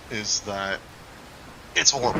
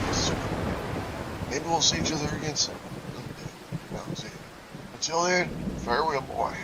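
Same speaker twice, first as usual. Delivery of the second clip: lightly put-on Southern accent, not much like the real thing; bad southern accent; 3 semitones higher than usual. Gamer voicing a game character's goodbye, bad Southern accent. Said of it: "I'm gonna keep this southern accent for him".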